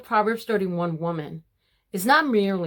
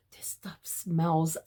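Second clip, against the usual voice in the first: slow, breathy whisper of delight; 3 semitones lower, 6 dB quieter, much slower than usual. Real, not acted. Telling the ladies about the rose soap, slow whisper. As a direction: whisper it slowly as if sharing a secret.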